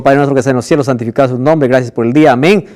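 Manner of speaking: low, rote recital of prayer; mechanical prayer. Shown as a demonstration. Preacher shows a bedtime prayer said by rote, mechanically. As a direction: recite it by habit, without feeling. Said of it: "yo estoy diciendo algo mecánico".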